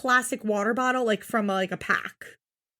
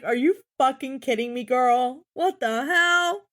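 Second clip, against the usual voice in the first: incredulous. Retold or imitated. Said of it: "I was like".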